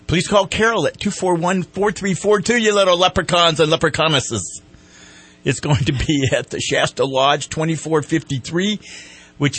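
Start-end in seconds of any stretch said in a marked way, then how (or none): 0.1-4.6 put-on Irish accent. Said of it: "I promise not to use an Irish accent again".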